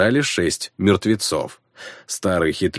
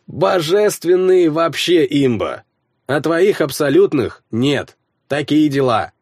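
higher, drowsy gamer friend; sleepy friend voice; 8 semitones higher, 4 dB louder than usual. A narrator's reading. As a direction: explain while half-asleep. Slavka explains, sleepy.

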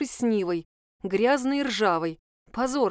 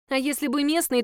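higher, teasing echo of her question; mocking echo; 5 semitones higher than usual. Dasha mockingly echoes Liza's question before refusing, teasing. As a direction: throw her words back at her.

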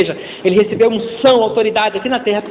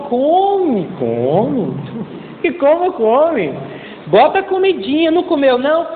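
higher, pleading sing-song coaxing; coaxing parent; 4 semitones higher, slower than usual. Retold or imitated. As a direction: beg the child to eat.

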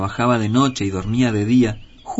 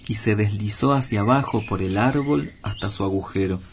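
usual speaking voice

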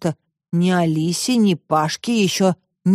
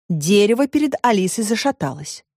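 usual speaking voice

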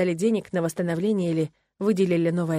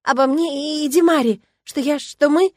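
higher, louder stammering; faltering; 8 semitones higher, 7 dB louder than usual. A narrator's reading. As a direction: stumble over the words. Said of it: "Она снова сбилась". (сбивчиво, взволнованно)

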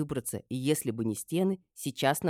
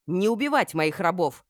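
louder, higher sharp command; barked order; 5 semitones higher, 5 dB louder than usual. A narrator's reading. Mistress orders guards not to kill slaves, barking. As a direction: bark it as an order. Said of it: "рявкнула я".

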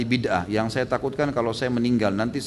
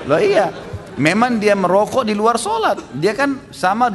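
louder burst; 7 semitones higher, 5 dB louder than usual. Real, not acted. Bursts back after laughing.

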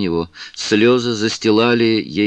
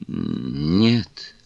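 pleading; 4 semitones lower than usual. A narrator's reading. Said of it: "умоляюще произнесла Кларинда".

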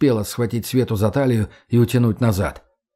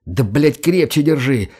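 irritated shout; 2 semitones higher than usual. Acted. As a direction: snap it out in irritation. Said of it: "раздражённо крикнул Макс".

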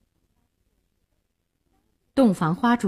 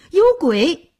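higher, louder cry of terror; frightened cry; 7 semitones higher, 5 dB louder than usual. A narrator's reading. Groom scared by his bride's face, crying out in fright. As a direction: yell it out, scared. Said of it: "张秀林吓得大叫".

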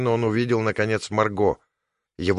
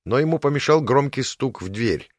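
ordinary delivery, nothing marked

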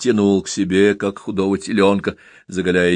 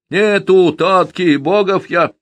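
put-on boy's retort; 9 semitones higher, 5 dB louder, slower than usual. A narrator's reading. Boy answers drunk.

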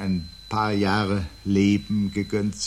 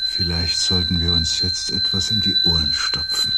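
louder, calling over the noise; speaking over the din; 7 dB louder than usual. Acted. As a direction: raise your voices over the roaring tone. Shouting over the swelling tone.

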